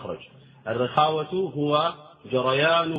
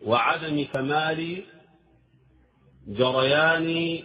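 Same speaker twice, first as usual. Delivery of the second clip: slow stretched; 3 semitones higher, slower than usual. Shown as a demonstration. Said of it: "stretching the words".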